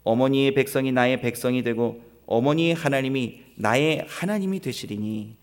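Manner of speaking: measured, formal Bible recitation; scripture reading. Acted. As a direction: read it out solemnly to the congregation. 성경 본문을 낭독함. (또박또박 엄숙한 성경 낭독)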